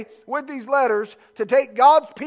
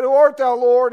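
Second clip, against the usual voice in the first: Saul's startled cry; 4 semitones higher, 9 dB louder than usual. Acted. Saul cries out to voice.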